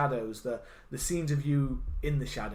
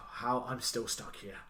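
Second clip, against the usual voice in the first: slow imitated lament. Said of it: "much more of a slow kind of".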